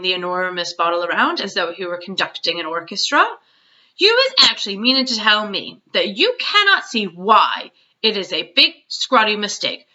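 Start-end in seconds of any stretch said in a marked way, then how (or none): 4.0-9.9 a light giant voice, earnest and scolding; a hint of a big friendly giant explaining; lightly voiced BFG.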